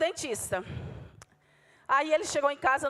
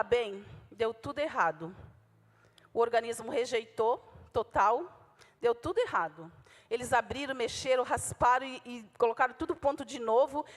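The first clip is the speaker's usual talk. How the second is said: husband's sad news; 2 semitones lower than usual. Retold or imitated. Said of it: "E nesse ponto ele começou a chorar".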